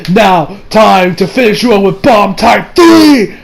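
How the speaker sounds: slow build into a shout; attack call. Acted. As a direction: announce the attack, shouting the end. Acting the villain's attack call.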